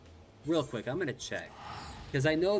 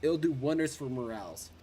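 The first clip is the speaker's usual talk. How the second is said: louder, raised pirate talk; 3 semitones higher, 4 dB louder than usual. Acted. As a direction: keep up the gruff pirate. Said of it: "you're supposed to sound like a pirate".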